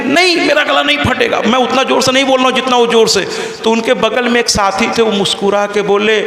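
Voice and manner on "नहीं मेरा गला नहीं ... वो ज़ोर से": imitating a man who always talks forcefully; rapid forceful retort. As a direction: fire it back quickly. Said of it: "इतने तीव्रता से क्यों बोल रहे हैं?".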